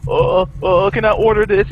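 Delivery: high, loud fussy customer voice; mock customer. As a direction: squeak out a dithering caller. Imitating phone customers.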